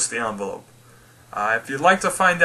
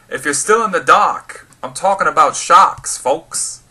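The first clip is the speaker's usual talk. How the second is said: bad Australian accent. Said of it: "that was a really bad accent".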